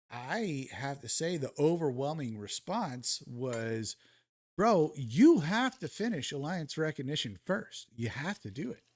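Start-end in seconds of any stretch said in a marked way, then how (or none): 4.6-8.8 emphatic quote of pushy commenters, pitch jumping on the key words; insistent mock commenter. Gamer quoting commenters who demand he finish recognition first, mock insistence. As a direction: imitate fans insisting, punching it out.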